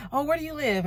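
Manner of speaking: high chirpy imitation of a curious local; mock curious local. Atlanta folks asking where she lives, high curious mimicry. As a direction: play the nosy Atlanta acquaintance. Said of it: "And they be like".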